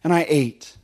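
hammed-up Eve passing the blame; Eve blaming the serpent. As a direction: Eve excusing herself to God, pitched high and pleading. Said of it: "And she said".

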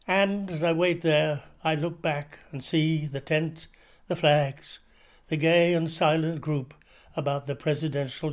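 measured literary reading of a journal; story reading. Acted. Actor reading Dickens's journal to radio listeners, measured narration. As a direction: read it like a classic diary extract on the radio.

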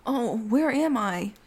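high, hammed-up bewildered voice; mock dazed victim. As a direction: imitate someone badly faking a kidnapping daze. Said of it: "rubbing his head going".

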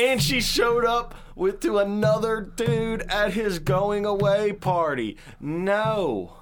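high, slow, drawn-out outrage; indignant. Real, not acted. Friend ranting about her showing up with another dude, indignant. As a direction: stretch each word in high disbelief.

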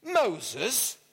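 MOSES as an incredulous rising question; mock-incredulous Moses, lifting at the end; amused disbelief. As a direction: echo Moses back in disbelief, tune rising. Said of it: "the burglar laughed".

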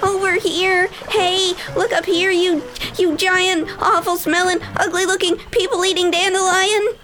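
high-pitched pirate calling out a challenge; high shout. A narrator's reading. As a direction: holler up high to grab the giant's attention. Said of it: "he shouted".

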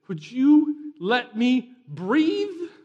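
high, loud, very drawn-out begging; mock whiny plea. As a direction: whine at God for a break. Acted whiny plea to God.

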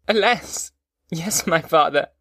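high-pitched cry easing into slow sorrow; tearful lament. A narrator's reading. Weeping son answering his father, tearful lament. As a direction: lament it, starting high, then slowing. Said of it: "I shed tears".

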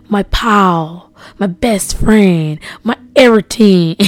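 gushing. Real, not acted. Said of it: "I don't know why I'm talking like that".

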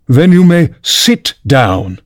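dry pompous king. Acted. King voiced slowly.

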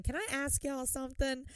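imitating a Southern lady asking; Southern accent mimic. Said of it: "anyone with an accent like that".

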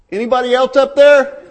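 loud, high, frantic "anybody else" shout; panicked call. Acted. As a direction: yell it upward, hoping for a better answer. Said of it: "And the man looks up".

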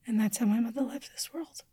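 barely voiced, hushed with grief; whispered grief. Real, not acted. Telling the interviewer how her mother died, whispered. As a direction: let the words fall to a whisper. Final line of mother's death story.

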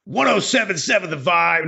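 mild top-forty station ID voice. Shown as a demonstration. Host tries a back-sell for his co-host, mild DJ voice. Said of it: "back selling that on a top forty radio station".

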